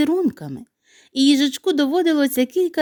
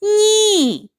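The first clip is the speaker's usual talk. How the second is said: high laughing "Ні", much higher and louder; 11 semitones higher, 4 dB louder than usual. Acted. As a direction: toss out a high, giggly "Ні". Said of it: "засміялася сніжинка".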